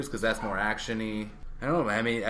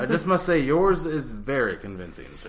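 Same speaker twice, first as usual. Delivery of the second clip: mock posh English; 4 semitones higher than usual. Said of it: "these past thirty-eight episodes".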